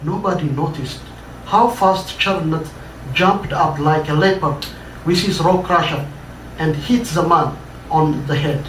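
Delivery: measured, dramatic read-aloud narration; story reading. A narrator's reading. Author reading his own story to an audience, dramatic narration. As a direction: tell the tale to a listening audience.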